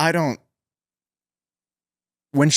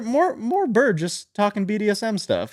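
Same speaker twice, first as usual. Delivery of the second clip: excited squeal; 11 semitones higher than usual. Retold or imitated. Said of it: "I'm like".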